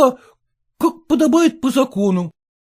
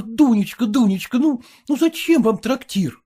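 ordinary delivery

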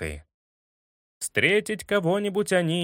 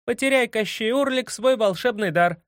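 high shouted incantation; yelling spell; 6 semitones higher than usual. A narrator's reading. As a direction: bellow the spell out. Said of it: "дунул и заорал".

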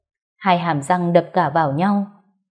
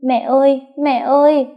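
put-on high, loud sobbing child cry; 7 semitones higher, 4 dB louder than usual. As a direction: sob for mom like a small boy. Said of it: "òa lên khóc nức nở". (bé trai khóc nức nở gọi mẹ)

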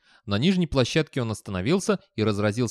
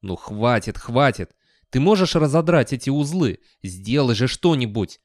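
exasperated plea; 2 semitones higher, 5 dB louder than usual. Acted. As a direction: beg impatiently for help. Character pleads to be untied.

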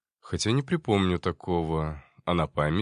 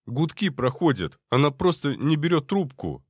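worried, louder protest; anxious objection; 6 semitones higher, 4 dB louder than usual. Acted. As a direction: insist in alarm. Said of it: "тут же возразил Андрей".

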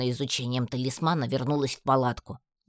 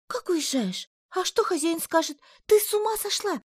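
excited chatter. A narrator's reading. Алька hears Татьяна is leaving, excited high chatter. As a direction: rattle off shocked questions. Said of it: "возбуждённо затараторила напарница".

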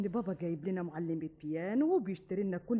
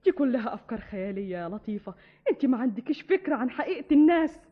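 louder, sharp warning; scolding; 7 dB louder than usual. Acted. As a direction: raise your voice to warn her. Sister scolds naive girl. (توبيخ بصوت عالي)

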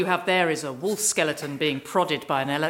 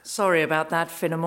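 smirking. Acted. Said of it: "Smirked the leader".

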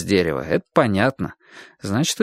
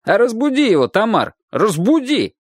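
calling out; 10 semitones higher than usual. A narrator's reading. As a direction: urge her to wake him. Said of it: "крикнул один из мужчин".

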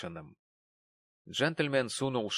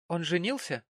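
nervous question; 7 semitones higher than usual. A narrator's reading. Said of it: "судорожно вздёргивая подбородок".

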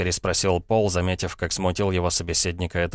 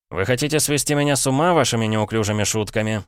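cried out; 5 semitones higher than usual. Acted. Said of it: "вскричал Пол".

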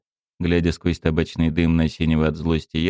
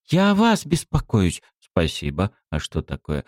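put-on high girl voice; 10 semitones higher than usual. A narrator's reading.

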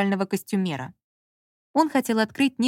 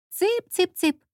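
high coaxing call like feeding hens; high singsong cluck-call for poultry; chick-chick calling; 10 semitones higher, much slower than usual. A narrator's reading. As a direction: coax the fish as if calling chickens.

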